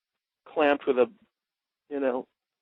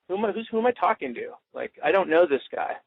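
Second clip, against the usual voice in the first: challenging coach; 4 semitones higher than usual. Shown as a demonstration.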